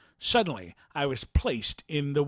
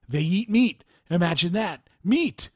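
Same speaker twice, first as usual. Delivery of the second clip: disgusted villagers; 3 semitones higher, 4 dB louder than usual. Retold or imitated. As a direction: spit out the word Meat! in disgust, voice jumping up. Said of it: "Some voices say".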